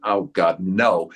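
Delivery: a wary voice in the back of his head; doubtful inner voice. Retold or imitated. Actor hearing his inner doubts, low reluctant groan. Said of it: "I could hear a voice in my head".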